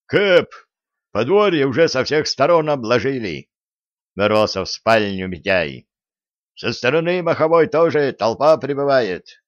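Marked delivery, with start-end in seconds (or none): 0.1-3.5 high, loud urgent call; urgent alarm. Acted. Mityay bursts in alarmed. 6.6-9.4 urgent alarm. Acted. Mityay bursts in alarmed.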